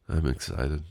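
lightly mimicked glum cartoon hound; Droopy the dog. Podcaster mocking how unexcited he just sounded, droopy deadpan. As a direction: echo yourself with mock lack of enthusiasm. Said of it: "I sound like Droopy the dog".

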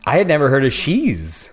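played back as an echo; echoed phrase repeats. Real, not acted. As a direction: voice repeated through the stream audio. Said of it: "I can hear myself echo now".

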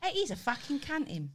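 put-on cockney London abuse; London accent. Shown as a demonstration. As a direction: grumble it in a mock London accent.

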